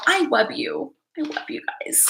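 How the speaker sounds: lightly voiced baby talk, trailing to soft; a hint of silly, cutesy toddler speech. Shown as a demonstration. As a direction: say it sweetly in playful baby talk. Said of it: "talk in a baby voice".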